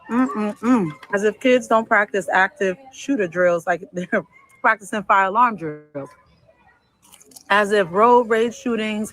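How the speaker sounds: talking while eating; mouth full. Real, not acted. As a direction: eat and talk at once. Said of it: "I'm gonna eat and talk".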